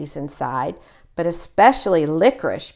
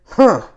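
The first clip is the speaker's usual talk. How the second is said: grunt; 4 semitones higher, 7 dB louder than usual. A narrator's reading. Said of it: "grunted Brother".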